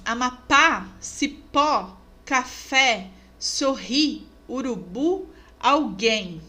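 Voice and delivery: each word punched on its end: "Amapá, cipó, café, sorri, urubu, alguém"; stress on last syllable. Shown as a demonstration. Teacher listing oxítonas, last-syllable stress in Amapá through alguém. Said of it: "Oxítonas".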